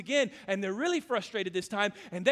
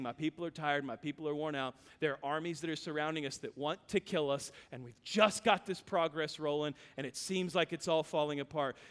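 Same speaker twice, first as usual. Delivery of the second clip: lower, softer burdened leader; weary Nehemiah; 7 semitones lower, 7 dB quieter than usual. Acted. Nehemiah lamenting his tired people, low and soft. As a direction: Nehemiah quietly voicing the strain. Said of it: "and he is saying".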